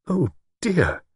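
high, falling cry of dismay; deep distress. A narrator's reading. Woman reacts to broken engagement, distress. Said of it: "deep distress in her voice".

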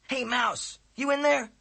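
loud, high call; calling through the door. A narrator's reading. Friend calls through the apartment door, loud.

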